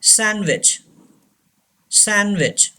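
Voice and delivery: "sandwich" said as san-wich; silent D. Shown as a demonstration. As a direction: drop the D in "sandwich". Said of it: "D is silent". ("sandwich" में D की आवाज़ नहीं, "सैनविच")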